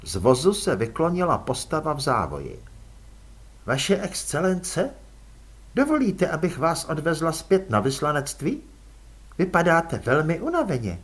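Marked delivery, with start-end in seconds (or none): 3.7-11.0 polite, cool vampire aristocrat offering a ride; elegant vampire lady. Acted. Vampire lady Margolota speaks.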